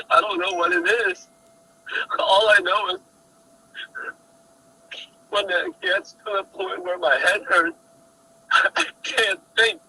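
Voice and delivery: high, strained, cracking voice; breaking down, voice climbing and cracking. Real, not acted. Distressed suspect breaks down on call.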